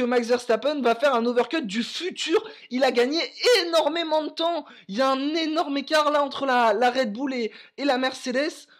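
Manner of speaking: excited commentary. Real, not acted. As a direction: call the gap with growing thrill. Live commentary, big time gap. (commentaire excité)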